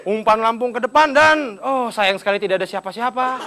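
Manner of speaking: slow drawn-out play-by-play, lightly hammed; imitating a TV commentator's odd phrasing; mock football commentator. Comedian mocking football commentators, slow play-by-play. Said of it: "Komentator bola juga suka aneh ngomongnya".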